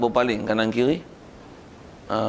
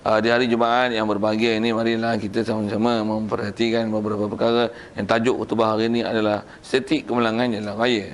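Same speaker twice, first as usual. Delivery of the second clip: monotone mock khutbah recital; sleep-inducing sermon reading. Shown as a demonstration. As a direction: drone through a formal Friday announcement. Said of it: "Memang tidur lah tu".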